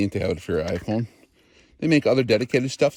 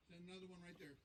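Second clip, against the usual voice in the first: calm radio call for fire; 8 semitones higher, 4 dB quieter, faster than usual. Real, not acted. Spotter clears the next shot.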